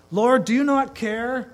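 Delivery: high, loud, slow pleading; a whiny plea dragged out; upset Martha again. Retold or imitated. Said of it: "Martha gets upset and she says".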